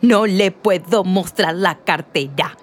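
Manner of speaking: slow, mimicking the lady's refusal; mocking imitation. Cashier mocks the lady's refusal, slow mimicry. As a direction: parrot her words back to mock her. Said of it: "Imita la forma en que lo dijo la señora".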